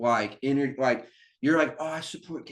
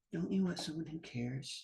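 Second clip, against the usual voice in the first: put-on caring motherly voice, quieter; 3 semitones higher, 14 dB quieter than usual. Retelling how Kamala speaks to sad people: imitating Kamala's motherly voice. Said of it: "she goes up and she's just like".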